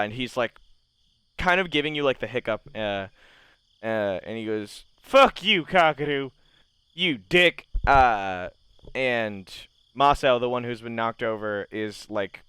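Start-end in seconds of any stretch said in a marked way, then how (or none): 5.0-7.7 put-on angry drunk insult. Drunk insults his companion.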